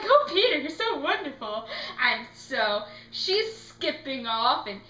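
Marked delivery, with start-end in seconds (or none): 0.0-1.7 put-on gushing, high-pitched girlish adoration; Wendy. Wendy adoring Peter, mock gushing. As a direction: start loud and high, swooning over him. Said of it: "And Wendy's like".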